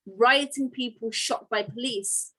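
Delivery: slow headline read, "rioting people" to the fore; stress on rioting people. Shown as a demonstration. Teacher comparing headlines for the class, light stress on "rioting people". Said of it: "Again, it's the rioting people here".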